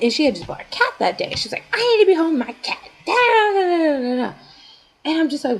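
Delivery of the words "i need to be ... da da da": fast, much higher mock complaint; hammed-up whiny rant; going off. Friend complains she must get home to her cat, high mock whine. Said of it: "goes off on them".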